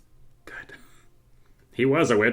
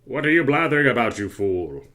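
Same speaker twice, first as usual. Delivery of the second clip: irritated scolding. Acted. King berates guard.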